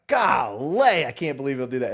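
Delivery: exaggerated Southern twang, high and loud on golly; Southern accent. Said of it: "if I'm with him for ten minutes".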